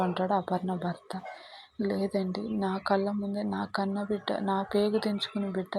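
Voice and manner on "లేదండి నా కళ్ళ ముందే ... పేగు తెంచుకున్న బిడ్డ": quiet, tearful, softer voice; soft tearful plea. Acted. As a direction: mourn softly through tears. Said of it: "అంటూ ఏడుస్తూ ఉంటుంది". (భర్తతో మెల్లగా ఏడుస్తూ)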